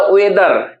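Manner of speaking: "वेदर" slowly in two long parts, we-dar; split in two. Shown as a demonstration. Teacher splitting the word in two, slow drawn-out "वेदर". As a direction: stretch both halves of "वेदर". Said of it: "दो part में तोड़िएगा".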